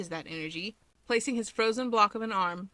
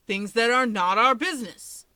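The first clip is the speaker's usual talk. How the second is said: interrupting; 3 semitones higher, 8 dB louder than usual. A narrator's reading. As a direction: cut in firmly, a bit louder. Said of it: "Toya interrupts Keigo".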